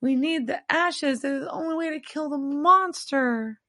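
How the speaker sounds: high, urgent pleading; high-pitched earnest plea; pleading Sam. Acted. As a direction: beg him like a desperate fan.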